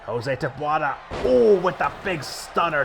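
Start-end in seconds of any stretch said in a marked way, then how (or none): 1.2-2.8 excited. Real, not acted. Excited wrestling call.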